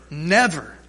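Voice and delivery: Never said alone, firm and falling; preacher answers his own question to the church; stress on never. Shown as a demonstration. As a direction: call out the word Never. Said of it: "what's the word, church?".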